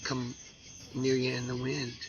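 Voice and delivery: hushed, grave whispering throughout; somber whisper. Acted. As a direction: whisper it like a solemn warning. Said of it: "This is a somber public service announcement".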